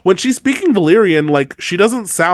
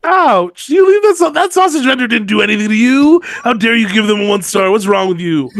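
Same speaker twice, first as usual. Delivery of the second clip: mock outrage; 2 semitones higher than usual. Cohost mock-scolding her friend over a one-star review, hammed-up outrage. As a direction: fake fury at a sausage snob.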